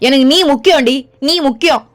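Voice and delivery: a husband insisting to his wife; emphatic insistence. Acted. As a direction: press it on her hard. Husband insists wife matters most.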